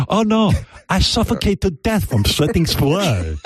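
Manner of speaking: high, hammed-up ladyboy in distress; mock ladyboy. Host pretends ladyboy dying like Goldfinger girl, mock distress. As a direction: play at suffocating in a girl voice.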